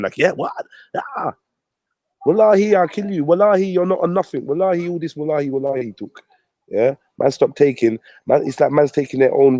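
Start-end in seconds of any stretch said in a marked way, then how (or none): 0.2-6.2 mocking a hyped-up threat, pitched high; hyping up. Man hyped by whispers threatens a fight, hyped-up and high. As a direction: imitate someone getting gassed up, high voice easing down. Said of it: "my man's hyping".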